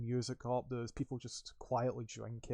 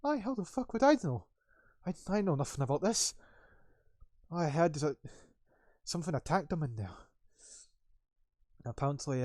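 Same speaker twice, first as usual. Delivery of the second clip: put-on angry young worker; 2 semitones higher, 4 dB louder than usual. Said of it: "He kinda goes".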